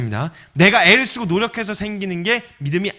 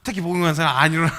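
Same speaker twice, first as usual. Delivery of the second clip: normal talking voice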